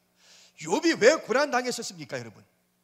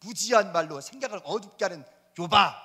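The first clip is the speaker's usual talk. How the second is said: stern God rebuking; 4 dB louder than usual. Retold or imitated. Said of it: "내뜸 하는 말이".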